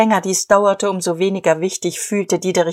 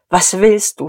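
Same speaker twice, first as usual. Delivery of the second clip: angry; 3 dB louder than usual. Acted. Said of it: "fragte sie zornig".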